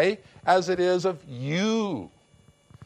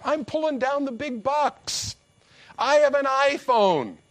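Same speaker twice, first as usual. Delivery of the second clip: higher, huffy mock bragging; mock offended pride; 4 semitones higher than usual. Preacher mocking a proud listener, higher huffy brag. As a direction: puff up like a vain know-it-all.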